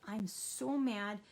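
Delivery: slow, calm, steady statement; a slow, even "I'm so mad"; calmly. Shown as a demonstration. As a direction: say it calmly after coping. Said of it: "you're gonna say it a little calmly".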